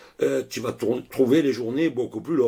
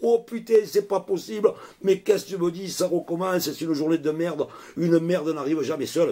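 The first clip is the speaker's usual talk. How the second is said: high anguished howl, retold with a touch of a wail; mock wail; 6 semitones higher than usual. Friend taking a second bad phone call, high mock wail. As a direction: cry out high like a man who's had enough. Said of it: "il se met à hurler comme un malade".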